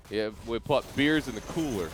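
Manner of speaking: a lightly put-on American accent, barely there; half-hearted American accent, mocking the word cooler; bad American accent. Australian caster jokingly mimics Americans, faint American accent. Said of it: "That was the worst accent".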